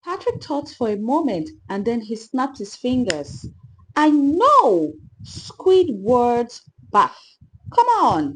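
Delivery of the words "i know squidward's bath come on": loud, eager burst of inspiration; excited idea. A narrator's reading. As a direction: shout it out like a lightbulb moment. Patrick gets a sudden idea.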